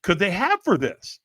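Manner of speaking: stammering disbelief, slowing for emphasis; acted incredulity. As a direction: protest it as if it makes no sense. Brain incredulous at firewalkers.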